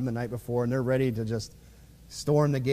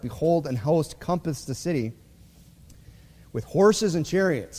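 louder formal reading of King James verses; scripture reading; 3 dB louder than usual. Acted. Preacher reads the verse to his church, in a formal reading voice. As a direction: read the old scripture out to the congregation, a bit louder.

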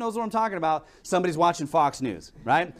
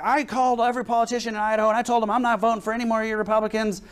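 higher-pitched imitation of an upset lady; freaking out; 4 semitones higher, faster than usual. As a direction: mimic someone mildly worked up. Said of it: "This lady is just freaking out".

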